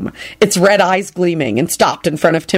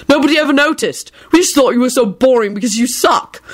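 sarcastic; 6 semitones higher than usual. Acted.

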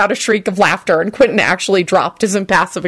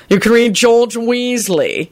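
flat deadpan; 5 semitones higher, slower than usual. A narrator's reading. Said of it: "he pronounced flatly".

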